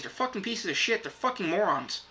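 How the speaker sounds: fed-up swearing tirade, voice pushed up; telling the companies off, genuinely exasperated; real frustration. Real, not acted. Vlogger to streaming companies, real frustrated rant. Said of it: "I'm visibly frustrated right now".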